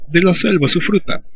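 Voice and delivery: De la selva su fruta lifted high with a rising la; jungle-region word order. Shown as a demonstration. Teacher imitates how people in the jungle order words. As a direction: lightly voice a jungle speaker's phrasing. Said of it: "en la selva dirá".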